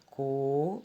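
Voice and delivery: "coberta" broken into separate beats: co, ber, ta; syllable by syllable. Shown as a demonstration. Teacher counting back from the last syllable, "coberta" syllable by syllable. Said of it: "vamos falar a palavra coberta".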